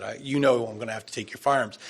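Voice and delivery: fast, falling matter-of-fact statement; brisk replay of the officer's line; quick retelling. Retold or imitated. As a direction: rattle it off as a flat order. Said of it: "That's what he said".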